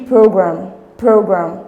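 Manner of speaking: program with PRO hit firmly; stress on first syllable. Shown as a demonstration. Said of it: "feel the stress on the first syllable".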